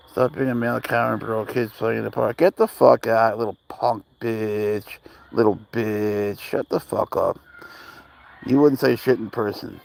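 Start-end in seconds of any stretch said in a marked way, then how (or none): 2.4-7.4 slow, deliberate angry taunt; slow menacing insult. Real, not acted. Cursing the noisy kids in the park, slow and menacing. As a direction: drag out every insult.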